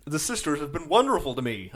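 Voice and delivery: lightly put-on American accent. Quoting the healed Duke's one line in an American accent. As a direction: quote it with an American twang. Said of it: "in a very American accent".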